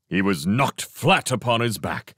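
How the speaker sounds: ordinary delivery, nothing marked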